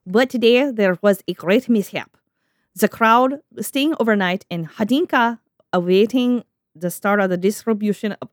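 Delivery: put-on Russian accent, reading a diary; deliberate, hammy Russian accent. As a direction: read it in your best amateur Russian accent. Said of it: "my best Russian accent".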